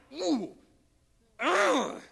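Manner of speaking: acted "ooh" and grunt of exasperation; wordless noise of pent-up irritation; angry groan. Preacher showing how angry he got, groaning. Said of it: "I actually got angry. I'm like".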